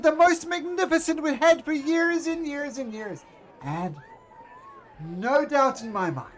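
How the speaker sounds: booming high showman's welcome, then slowing down; grand ringmaster. Acted. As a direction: announce it like a circus ringmaster to the crowd. Ringmaster reminisces to audience.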